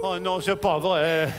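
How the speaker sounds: crying. Acted. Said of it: "ne recommence pas à pleurer".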